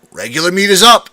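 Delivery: loud call over kitchen noise; calling out an order over the clatter; said loudly. A narrator's reading. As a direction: shout it across the grill. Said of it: "I said loudly".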